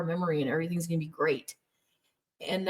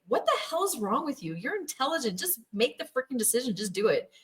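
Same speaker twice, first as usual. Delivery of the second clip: higher, incredulous impatience; mock exasperated husband; 5 semitones higher than usual. Husband urging wife to decide, mock exasperated. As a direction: push her to decide already.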